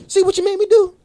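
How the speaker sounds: high, loud mocking scold; hammed-up told-you-so yell; mock scolding shout. Reenacting rant, phone thrown down.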